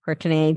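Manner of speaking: "Courtney" stretched to three syllables, COR-tuh-nay; spelling pronunciation. Shown as a demonstration. Guest repeating her web address, "Courtney" sounded out as spelled. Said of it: "it's spelled like Courtenay".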